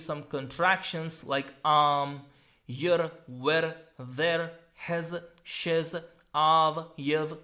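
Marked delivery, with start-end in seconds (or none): 1.6-7.4 short weak forms, "um, yer, wer"; each contraction squeezed into one syllable, "hez, shiz"; contracted forms. Shown as a demonstration. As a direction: list the contractions singly, "av, yev". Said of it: "these are the contractions".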